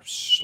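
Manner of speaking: short imitated snake hiss. Expecting to writhe on the floor, imitated snake hiss. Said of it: "like a snake".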